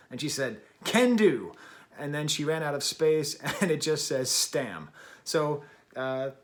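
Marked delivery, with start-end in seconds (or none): 0.8-1.5 cheerful mock goat voice. Goat's reply quoted in story.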